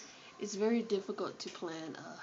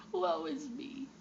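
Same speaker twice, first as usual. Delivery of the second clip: hammed-up lament, much higher; dramatic sigh; 8 semitones higher, slower than usual. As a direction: whine it like a tragedy. Mock tragic lament.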